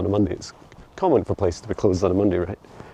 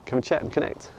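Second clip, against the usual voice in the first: talking tree; 4 semitones higher, 4 dB quieter, faster than usual. Pretend. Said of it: "The tree saying".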